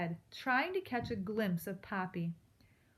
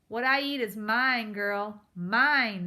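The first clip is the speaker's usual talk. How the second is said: louder owl screaming his claim; 2 semitones higher, 8 dB louder, slower than usual. A narrator's reading. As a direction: scream it, possessive and vicious. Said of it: "Mister Okax screamed".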